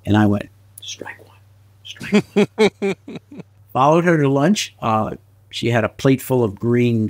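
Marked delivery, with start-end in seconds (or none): 0.8-1.4 whispered to himself under his breath. Real, not acted. After she laughs at his chair jump, whispered to himself. 1.8-2.9 much higher, umpire-style call; high mock announce. Real, not acted. After she laughs at his chair jump, high umpire-style call.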